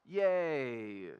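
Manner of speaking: a flat, mock-cheerful yay that drips irony; sarcastic yay. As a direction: fake enthusiasm nobody means. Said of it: "says no person ever".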